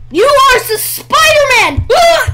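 high, impassioned pep-talk yell; rallying cry. Pretend. Player urging on the character as Spider-Man, rallying yell.

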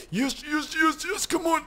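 high, eager yes yes yes; will the car to finally move; excited urging. Real, not acted. Gamer pleading with his car, high and eager.

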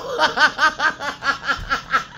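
high gleeful cackle; real triumphant laughter; laughing. Real, not acted. Laughing at the enemies to her viewers.

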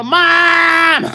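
very high, loud, hammed-up crying call; a teasing imitation of a kid calling for help; mock wail for mom. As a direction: yell for mommy like a panicked child. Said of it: "Don't, don't go".

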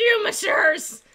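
put-on high French-accented exclamation; French character voice. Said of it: "I committed to that voice".

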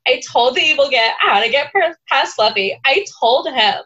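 put-on high, weepy sorority girl meltdown; bubbly sorority girl. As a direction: wail it like a dramatic sorority girl. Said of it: "read this paragraph in a sorority girl voice".

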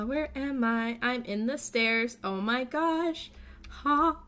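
ordinary delivery

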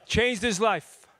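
slow breathy whisper of "Changed his life.". Shown as a demonstration.

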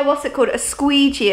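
saying "squeegee" through sore numb lips. Real, not acted. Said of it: "I can't even say squeegee 'cause it hurts".

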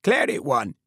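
a sudden high, loud barked call; army driver calling out across the yard; redneck army driver. A narrator's reading. Army driver calling to the corporal, loud and high. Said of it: "A redneck driver was saying".

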